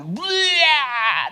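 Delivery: a high, retching bleh; vomiting noise. Retold or imitated. Pastor imitates the woman vomiting on him. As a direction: mimic someone throwing up.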